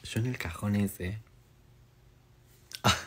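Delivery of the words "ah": scared. Real, not acted. Scared reaction to creepy toy.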